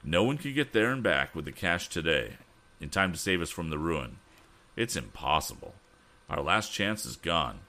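understated despair, sinking at the end; hopeless. Acted. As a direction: explain with mild resignation that all is lost. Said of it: "his voice was hopeless".

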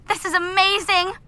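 a touch of retold jubilation; retold excited screaming. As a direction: relive the celebration without really screaming. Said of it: "jumping up and down and screaming".

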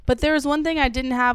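ordinary talk

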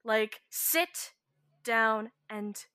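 slow, firm soothing command; commanding calm. Acted. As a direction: order him calmly to sit. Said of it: "throw a slight dominate on him to calm him down".

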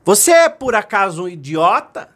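loud, high angry question; acted boy's annoyed yell; irritated shout. A narrator's reading. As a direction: hurl the question at an unseen mocker. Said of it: "ele se irritou e disse assim".

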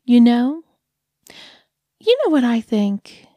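a lightly voiced cooing dog owner; condescending dog lady. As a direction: talk down to him like a pet, all sweetness.

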